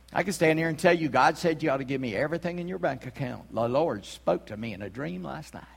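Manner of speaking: a hint of Southern US accent; mock southern preacher. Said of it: "southern accent when I do a wrong preacher".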